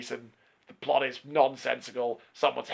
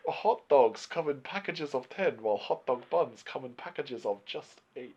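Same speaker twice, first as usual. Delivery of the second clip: mock Chinese accent; 2 semitones lower, 6 dB quieter than usual. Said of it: "Why are you doing racist accents?".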